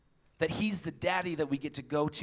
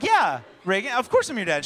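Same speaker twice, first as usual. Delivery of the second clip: flustered dad; 5 semitones higher, 8 dB louder than usual. Retold or imitated. Flustered dad answering daughter in public.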